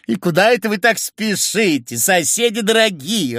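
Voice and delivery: high, sugary singsong; honeyed, chanting question; singsong cooing. A narrator's reading. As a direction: coo at the neighbours. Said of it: "распевала, ворковала Ксения".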